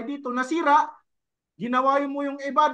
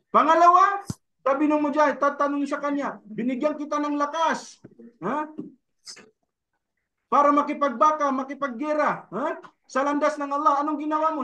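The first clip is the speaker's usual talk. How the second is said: preaching at full force. Acted. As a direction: drive the point home. Preaching the second case.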